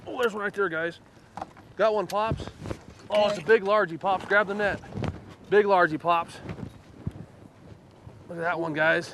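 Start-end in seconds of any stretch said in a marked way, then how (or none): 0.1-6.3 fighting a fish; calling out while reeling; excited. Real, not acted. Hooked a big bass, calling out.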